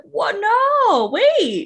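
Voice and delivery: jumps high and loud on no, wait; a startled, half-joking double take; mock panic as it suddenly hits; sudden alarm.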